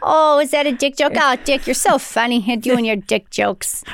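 hammed-up Fargo local, slowing at the end; put-on Fargo accent. Co-host teasing about dick jokes, mock Fargo accent. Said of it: "We gotta go to Fargo now".

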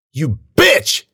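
high, loud furious insult; angry yell. A narrator's reading. Attacker turns on the girl who scratched him, yelling. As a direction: yell it, punching the last word. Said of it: "he yelled".

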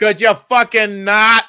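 high, loud, slow, laughing snap; a hammed-up, laughing old-timer; laughing mock snarl. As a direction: growl it through laughter. Acting the old comic.

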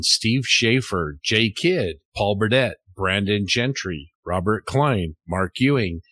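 evenly paced list of names, each set apart; credits roll call. Acted. Host thanking the top-tier supporters, roll-call read. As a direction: read the honor roll name by name.

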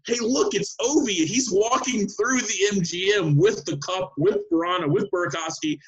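high-pitched, amazed announcement, retold; imitating an excited spotter, slowing as it goes on; excited calling out. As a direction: call it out high, marvelling. Retold calling out at seeing Ovi.

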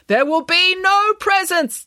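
high, loud, slow proclamation; stern declaration. A narrator's reading. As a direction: forbid it with slow theatrical force. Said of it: "declared Michael".

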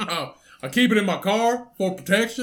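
lightly voiced stoner; a hint of a lazy stoner. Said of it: "That's how he sounded".

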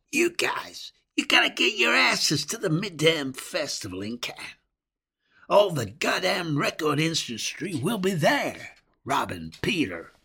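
put-on mid-Atlantic accent. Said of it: "He spoke with a strange mid-Atlantic accent".

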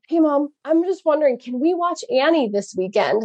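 a hint of her son asking casually; voicing her son. Mom retelling son's phone call, lightly imitating him.

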